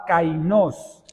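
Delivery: kainos said as kai-NOS; stress on final syllable. Shown as a demonstration. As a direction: say kainos with the accent on the O. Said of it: "permítame pronunciársela para que entendamos el significado".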